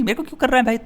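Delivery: a bemused why-me to the stranger; baffled exasperation. Retold or imitated.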